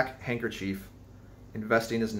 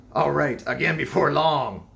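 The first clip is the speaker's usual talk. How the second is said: contemptuous laugh; 5 semitones higher, 5 dB louder than usual. A narrator's reading. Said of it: "laughed the stranger, with a solemnly derisive sort of laugh".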